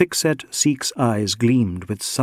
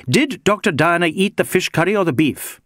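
higher-pitched, testy interrogation; understated irritable inspector; mildly snapped question; 6 semitones higher than usual. A narrator's reading. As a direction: snap the question with a touch of impatience. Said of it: "he snapped".

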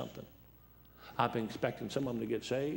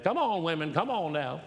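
louder call to the women; 5 semitones higher, 5 dB louder than usual. Real, not acted. Preacher calling out to the women, louder call. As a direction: urge the women on, voice up.

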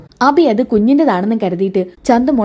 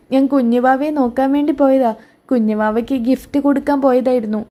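lightly put-on kid voice; little child explaining; 2 semitones higher than usual. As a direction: explain yourself like a little girl. Child explains herself to aunt.

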